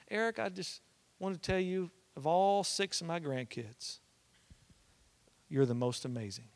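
soft, halting imitation of a grandma's praise; tender grandma. Grandma phoning her grandson to praise him, tender. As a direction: say it gently, with long pauses. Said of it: "this is a really tender moment".

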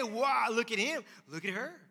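loud, high mock admiration; impressed onlookers. Onlookers loudly admiring someone praying. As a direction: gush over the show-off. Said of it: "Other people might say".

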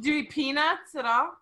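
asking through giggles; holding back laughter; trying not to laugh. Real, not acted. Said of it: "I'm trying to be serious".

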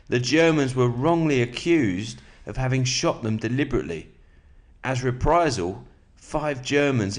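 steady, measured book reading; calm nonfiction narration; reading aloud. Acted. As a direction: read the passage to your listener. Reads a war biography aloud.

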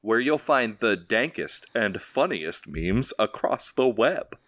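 slow, halting impression of a tech mogul; measured show sign-off with awkward pauses; Elon Musk. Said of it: "that's my Elon Musk voice".

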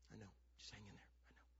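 low, hushed reassurance; soft consoling. Retold or imitated. Dad consoles his discouraged son at home, softly. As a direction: comfort him quietly.

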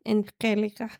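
playful Spanish pronunciation of Angelica; lightly thrown-on Spanish accent. Pretend. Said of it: "speaking a lot of Spanish today".

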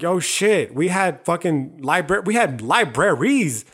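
amazed, drawing out the last words slowly; retold astonishment, stretching "libraries" out; surprised realization. Realizing his own people had libraries, slow amazement. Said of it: "imagine my surprise when I realized".

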